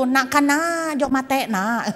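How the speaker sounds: lilting Madurese accent. Shown as a demonstration. Repeating the neighbour's way of speaking, Madurese accent. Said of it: "Madura kan gitu".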